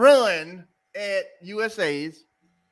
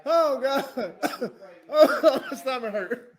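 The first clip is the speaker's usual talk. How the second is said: slow, breathless after laughter; after laughing hard; 6 dB quieter, slower than usual. Real, not acted. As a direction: catch your breath from laughing.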